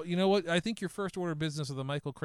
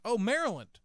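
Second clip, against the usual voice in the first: imitating a friendly station attendant, pitched up; pleasantly curious, lilting higher; calm, nice; 4 semitones higher than usual. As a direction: play the amiable local making small talk. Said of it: "very nice, very calmly says".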